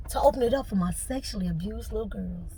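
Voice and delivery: breathy tearful whisper; barely voiced, choked with feeling. Real, not acted. Whispering through tears to her viewers. Emotional confession, whispered line.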